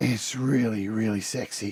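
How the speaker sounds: weird, rough, gruff voice, low, very drawn out. Speaker says a line in a horrible, weird, gruff voice. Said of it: "Did I say that in a horrible, weird, gruff voice then?".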